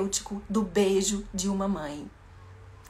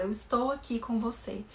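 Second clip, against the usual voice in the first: put-on soothing a crying child; slower than usual. Shown as a demonstration. Teacher comforting a sobbing child, slow tender voice. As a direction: hold the child close and calm them gently. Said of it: "deixa ela chorando e fala".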